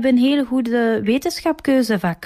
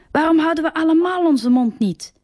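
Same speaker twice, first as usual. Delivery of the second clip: a higher, half-hearted mock yell at the quarrelling boys; retold shout; 9 semitones higher than usual. Charlotte snapping at the boys, a mild mock shout. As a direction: call it out over the others, only lightly raised. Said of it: "schreeuwt Charlotte".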